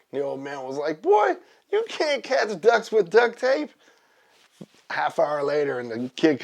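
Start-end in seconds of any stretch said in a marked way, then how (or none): 1.0-3.7 high, slow scolding call; mock yelling old man. Old neighbor scolding boy with duct tape, mock yell. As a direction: imitate a neighbor hollering, drawn out and high. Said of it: "He's yelling at him".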